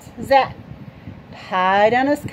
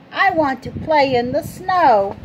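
excited; 4 semitones higher, 4 dB louder than usual. Acted. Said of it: "he sang".

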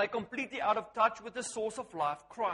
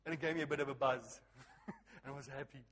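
low chuckle through the words; laughing under the words; amused laughing; 7 semitones lower, 9 dB quieter, faster than usual. Real, not acted. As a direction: tell it quietly while chuckling, low. Laughing at own joke story.

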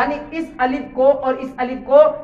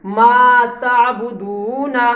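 slow recitation; much slower than usual. Shown as a demonstration.

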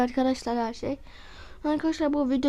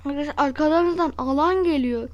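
alarmed; 5 dB louder than usual. Real, not acted. Zone closing in, alarm.

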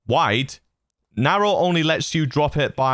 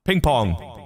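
ping pong echo. Shown as a demonstration. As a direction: echo bouncing between sides. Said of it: "That's the ping pong effect".

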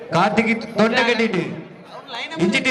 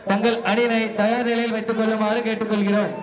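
steady public address announcement; announcer. Acted. Announcer declaring the winning team to the crowd. Announces 60 kilo category match.

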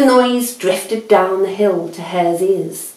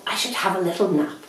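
sleepy thought; 7 dB quieter, much faster than usual. A narrator's reading. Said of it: "thought Hare".

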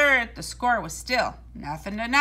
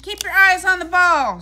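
loud, higher yell of advice; coaching shout; 8 semitones higher, 9 dB louder than usual. A narrator's reading. Big Leon yells advice from the bench to Harold, loud and high. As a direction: shout it at the batter. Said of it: "shouted Big Leon".

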